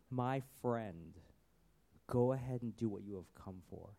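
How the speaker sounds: low, tender address; loving. Acted. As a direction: say it gently to a dear friend. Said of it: "almost in this loving sense".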